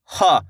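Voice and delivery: "ह" with air let out of the mouth; releasing air. Shown as a demonstration. Teacher showing learners the aspiration, "ह" released with air. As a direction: let the breath go on "ह". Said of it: "इस तरीके से हवा छोड़नी है".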